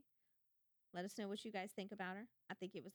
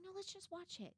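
lightly voiced husband, pitched higher; mock husband voice; 12 semitones higher, 4 dB quieter than usual. Husband coaxing her to keep watching, mock higher voice. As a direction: imitate him coaxing her to keep going. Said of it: "He's like".

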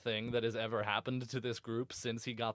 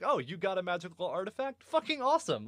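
mock hyped dwarves; 6 semitones higher, faster than usual. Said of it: "They're like".

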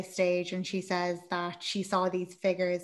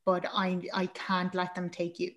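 soft, urgent retold pleading; quiet, earnest protective urgency; hushed confession; 2 semitones lower, 7 dB quieter than usual. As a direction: lightly act a secret warning, voice dropped. Voices wife's frightened confession.

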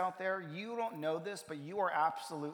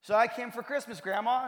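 imitated earnest appeal; 7 semitones higher, 9 dB louder than usual. Mother answers hostile grandmother at door.

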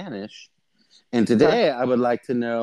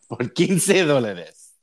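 laughing vendor call; 3 dB louder, slower than usual. Shown as a demonstration. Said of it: "you gotta talk like a street vendor".

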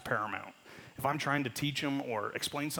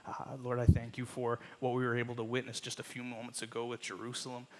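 prayer. Acted. Leads congregation in prayer.

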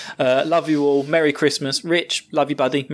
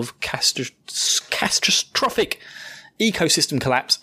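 mock ominous whisper; 3 semitones higher than usual. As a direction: breathe the word catastrophic like a dark secret. Joking doom about ecosystem collapse.

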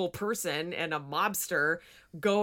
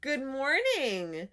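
high, slow, cooing dog voice; 4 semitones higher, slower than usual. Real, not acted. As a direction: coo at the dog slowly. Talking to the dog.

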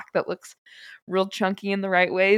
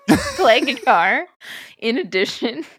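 incredulous; 5 semitones higher, 7 dB louder than usual. Real, not acted. Incredulous laughing reply.

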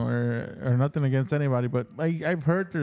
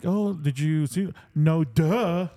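slow fake question, then a duh; mock them for stating the obvious; middle-school sarcasm; much slower than usual. Nineties middle schooler answering, sarcastic.

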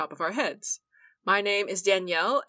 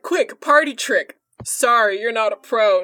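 loud mock put-down; mocking coworker; 7 dB louder than usual. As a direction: snap it like a brusque critic. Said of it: "he was like".

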